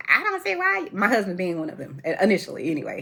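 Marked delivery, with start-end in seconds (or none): 0.1-0.9 imitating skeptics. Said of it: "some people are like".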